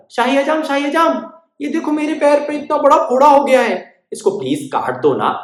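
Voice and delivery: high, pleading little bird; small bird calling to the barber, high and pleading; tiny bird voice. Acted. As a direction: squeak up high and beg.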